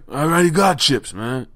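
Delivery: imitating the homeless man. Mimicking the homeless man refusing the chips. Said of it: "And he's like".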